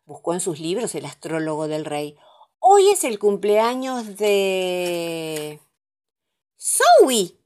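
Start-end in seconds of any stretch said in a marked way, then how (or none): 2.6-7.4 cartoon princess. A narrator's reading. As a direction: proudly announce her own name. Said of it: "dijo la princesa más pequeña".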